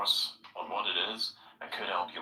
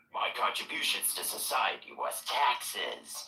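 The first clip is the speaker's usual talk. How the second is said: slow, breathy deadpan sarcasm; sarcastic; slower than usual. Shown as a demonstration. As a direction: drag it out with dry contempt. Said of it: "when I get super sarcastic".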